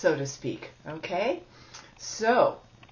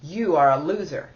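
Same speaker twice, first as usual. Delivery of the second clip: louder accusing inner critic; 6 dB louder than usual. Shown as a demonstration. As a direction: throw it at yourself like a judge. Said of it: "hear that voice as though it's a part of you".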